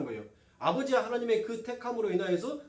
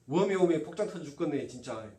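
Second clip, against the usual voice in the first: Jeolla dialect grumble; 5 semitones lower than usual. Acted. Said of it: "우리 전라도 말로 하면 그랬을 거 아니에요".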